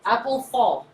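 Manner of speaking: "Apple fall" said with her own accent, APPLE stressed. Shown as a demonstration. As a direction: say "Apple fall" as she pronounces it. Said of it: "I'm gonna say it like this".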